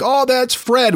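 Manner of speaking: high, startled gasp of recognition; a villager seeing a dead neighbor move; shocked villager. Retold or imitated.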